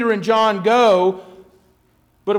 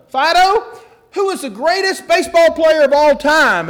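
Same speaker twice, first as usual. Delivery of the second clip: high, hopeful quiz question, acted; coaxing dog owner; 6 semitones higher than usual. Dog owner's last try before talent agent, high coaxing. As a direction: put the question to the dog, voice raised. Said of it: "the man goes".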